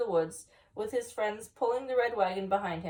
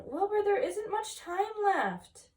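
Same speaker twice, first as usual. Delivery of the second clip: shouting; 9 semitones higher, slower than usual. A narrator's reading. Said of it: "shouted Francine".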